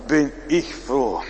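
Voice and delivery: slow, sighed-out relief; relieved desperate caller. Retold or imitated. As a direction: imitate a caller weak with relief. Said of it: "ganz verzweifelt".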